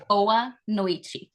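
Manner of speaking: Boa noite said noy-chee; Portuguese greeting. Shown as a demonstration. Teacher leading the class in Boa noite, clearly. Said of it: "So let's do it together".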